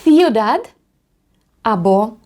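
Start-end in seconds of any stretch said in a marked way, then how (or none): 0.0-0.7 ciudad raised and louder with a rise; Spanish ciudad; Spanish model word. Shown as a demonstration. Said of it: "Наприклад".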